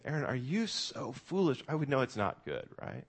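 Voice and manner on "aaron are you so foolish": lightly voiced parent scolding a child, "you" pressed; a hint of a disappointed parent. Parents scolding their son Aaron, mild mock scolding. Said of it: "if my parents were coming to me and saying".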